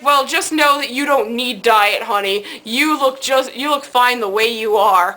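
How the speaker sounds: slow, lightly imitated Italian accent. Italian counterman reassures customer, slow imitated Italian accent. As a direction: reassure her slowly with a hint of Italian accent. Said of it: "in this very thick Italian accent".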